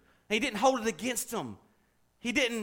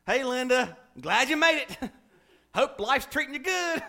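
fake greeting; 2 semitones higher than usual. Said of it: "You don't say".

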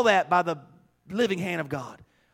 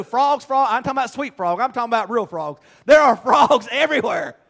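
loud, mounting preacher's exasperation; animated preaching; 4 semitones higher, 6 dB louder than usual. Real, not acted. Preacher telling of frogs all over the apartment, animated preaching. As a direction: pile it up, louder to the last line.

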